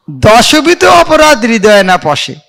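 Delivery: slow devotional recital; prayer recitation. Shown as a demonstration. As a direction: draw out each word reverently. (ধীরে ভক্তিভরে আবৃত্তি)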